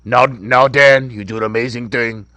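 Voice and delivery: low, lightly voiced mob boss; a hint of a New Jersey mobster; Tony Soprano impression. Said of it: "you sound like a Puerto Rican Tony Soprano".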